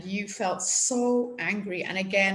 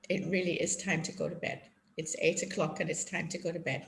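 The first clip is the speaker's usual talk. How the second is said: softer, quick, gentle bedtime firmness; gentle calm parent; 3 semitones lower, 5 dB quieter, faster than usual. Shown as a demonstration. Parent calming an upset child at bedtime, softly gentle. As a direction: settle the child gently but firmly. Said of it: "being gentle".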